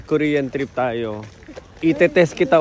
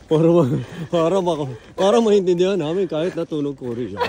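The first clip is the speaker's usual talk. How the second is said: Korean accent. Shown as a demonstration. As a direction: show how to speak Tagalog with a Korean accent. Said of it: "Korean accent pa rin".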